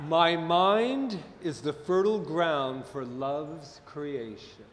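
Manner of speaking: slow, deliberate affirmation; measured recitation, falling away at the end. Shown as a demonstration. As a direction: model the line for a group to repeat. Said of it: "I'll say it once".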